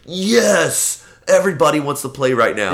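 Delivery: high, loud, fast giddy dog; a dog's voice bursting with glee; excited dog voice. Pretend. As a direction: voice the overjoyed pit bull, rushing. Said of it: "He's like".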